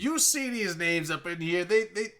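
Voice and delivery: slow put-on Boston accent. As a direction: drawl it out like a Bostonian. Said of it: "I was trying to do a Boston accent".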